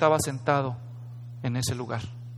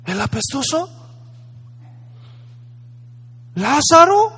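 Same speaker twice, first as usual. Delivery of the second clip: surprised disgust; 8 semitones higher than usual. Acted. Rich man recognizing Lázaro.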